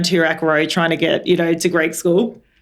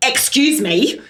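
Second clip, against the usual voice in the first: "Excuse me" pitched higher and pushed out firmly; 5 semitones higher, slower than usual. Retold or imitated. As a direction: demand attention with "Excuse me". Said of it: "So I was like".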